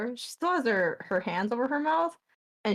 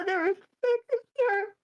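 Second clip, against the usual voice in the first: slow, rising higher into distressed disbelief; stunned and upset; 9 semitones higher, slower than usual. Acted. Leaf on the floor telling Saheera what she saw, shaken. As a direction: voice climbing as the shock sinks in. Leaf in shock after vision.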